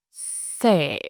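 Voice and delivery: SE dipping low at the end. Shown as a demonstration. Teacher gives thanh hỏi example, SE dipping low. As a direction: let SE sink without rising back. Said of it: "It's a low".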